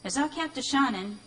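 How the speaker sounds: lively spooky recital; poem reading. Acted. Reader recites The Devil's Grin to the audience, lively. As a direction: tell it like a tale by lamplight.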